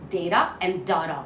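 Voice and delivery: data as "day-da", then data as "dah-da"; two variants contrasted. Shown as a demonstration. Teacher sets two correct ways side by side, contrasted vowels. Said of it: "Both are correct".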